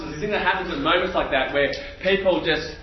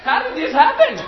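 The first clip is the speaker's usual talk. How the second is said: laughing disbelief; 9 semitones higher than usual. Retold or imitated. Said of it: "And I'm like".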